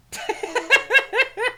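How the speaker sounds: high, loud shocked laugh; burst of laughter. Real, not acted. Player reacts to the monster with a high burst of laughter.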